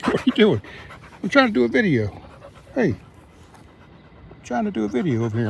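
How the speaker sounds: indignant dog voice, slowing at the end; hammed-up dog complaint; voicing the dog. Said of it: "She gets so mad, really".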